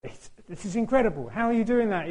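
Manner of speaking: high-pitched retold amazement; incredulous praise. Band leader to the tuba player on his scale, high amazement. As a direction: imitate an astonished admirer, voice lifted. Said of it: "he was just like".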